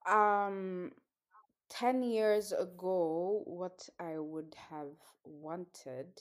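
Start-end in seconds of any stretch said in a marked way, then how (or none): 3.4-6.1 unvoiced, slow whisper. Real, not acted. Recalling her childhood wish, whispered. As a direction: breathe it out as an aside.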